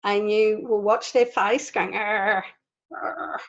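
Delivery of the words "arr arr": imitated angry "arr"; mock angry growl. Teacher imitates an angry person's face going, mock angry growl. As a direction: growl like someone cross, in demonstration. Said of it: "if you see an angry person".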